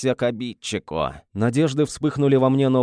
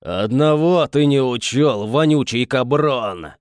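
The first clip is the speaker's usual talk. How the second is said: inhuman, louder demonic voice; eldritch horror; 4 dB louder than usual. Acted. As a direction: speak as the monster inside. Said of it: "нечеловеческим голосом".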